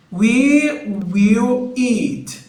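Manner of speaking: slow model phrase. Shown as a demonstration. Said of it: "nós comeremos".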